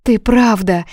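high, loud, breathless disbelief; can it really be you; astonished. Acted. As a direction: Yuna overwhelmed that Kayden freed Tim. Yuna stunned by his mercy.

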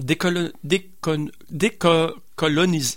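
stumbling over the word with cold lips; frozen mouth. Real, not acted. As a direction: lips numb from the cold outside. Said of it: "j'ai la bouche gelée, j'arrive de dehors".

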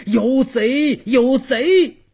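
high-pitched alarmed shouting; frantic old man crying thief; urgent loud cry. Acted. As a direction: raise the alarm at full voice. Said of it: "急得老汉高喊".

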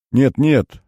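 sobbing. A narrator's reading. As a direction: choke it out through tears. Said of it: "всхлипнул он".

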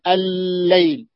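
الليل held slowly with the doubled lam; الليل drawn out; slow recited example. Shown as a demonstration. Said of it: "اللام".

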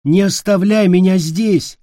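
put-on child calling out in panic; desperate child shout. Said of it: "закричал он".

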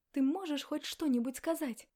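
loud, impatient demand. Acted. Woman losing patience with silent man, loud demand. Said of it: "потребовала я".

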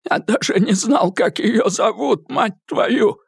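high, frantic thug voice, swearing; a beaten man blurting desperate denials; frightened high-pitched captive; Eddie, panicked. A narrator's reading.

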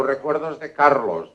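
acted booming hello; hearty greeting. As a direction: deliver the regards in a big, drawn-out voice. Friend passes on greetings insistently.

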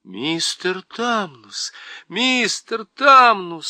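slow, rising distressed calling of his name; upset calling. Acted. Lucy, deeply upset, calling to the sobbing Faun. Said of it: "страшно расстроившись".

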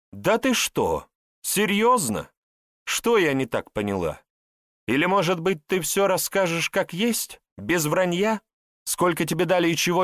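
high, heated reproach; angry accusation. A narrator's reading. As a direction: tear into the brother who betrayed her. Sister confronts brother over betrayal.

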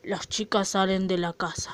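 low scene-setting narrator; narration. A narrator's reading. Reads stage narration.

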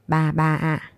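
soft, lightly voiced toddler first words; toddler babbling. A narrator's reading. Toddler babbling to grandma, lightly voiced. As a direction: babble it like a small child calling grandma. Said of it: "Bím bập bẹ".

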